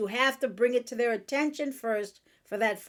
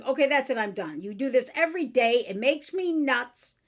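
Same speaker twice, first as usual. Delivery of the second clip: mock fed-up outburst. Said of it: "Instead of going".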